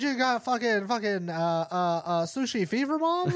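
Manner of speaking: high, loud sputtering outrage; mock outraged son. Son scolding his mom on the show, high sputtering mock outrage. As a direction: splutter at mom, hammed up.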